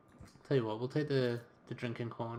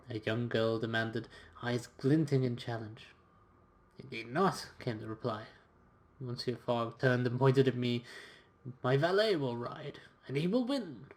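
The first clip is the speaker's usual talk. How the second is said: expressive, measured storytelling read; story narration. A narrator's reading. Valet telling of his master's wager in Copenhagen, story narration. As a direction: narrate it like an adventure journal. Reads game's story aloud.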